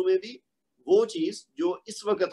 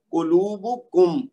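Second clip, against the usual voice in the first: slow قلوبکم, landing loud on the final کم; emphasis on KUM; 2 semitones higher, 4 dB louder, much slower than usual. Shown as a demonstration. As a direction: stretch قلوبکم and stress its closing meem. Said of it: "اس میں جو میم ساکن ہے".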